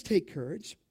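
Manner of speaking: soft, low reassurance; gentle reassurance. Acted. Savior to disciples instead of scaring them, gently reassuring. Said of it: "but he doesn't do that".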